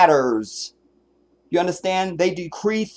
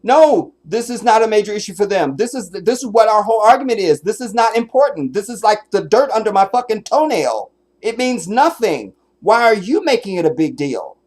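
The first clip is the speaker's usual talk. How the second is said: angry rant; 5 semitones higher than usual. Real, not acted. Ranting at the interview clip.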